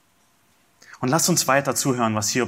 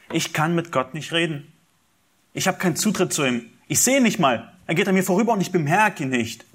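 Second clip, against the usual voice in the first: higher, pleading voice of suffering Job; Job's lament; 6 semitones higher than usual. Acted. Preacher voicing Job's complaint to the congregation, pleading. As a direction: plead upward as a man who cannot reach God.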